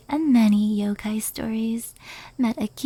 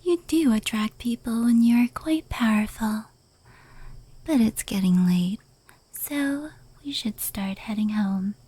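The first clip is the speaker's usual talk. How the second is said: whisper. Acted. Yokai recounting fireworks lore to the listener, whispered. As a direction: hush every word as if telling a secret.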